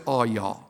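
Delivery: "all y'all" with both L's dropped, "aw yaw"; Southern "all y'all". Shown as a demonstration. Native teaching plural beyond two, "all y'all" Southern-style. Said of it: "Don't put an L on it".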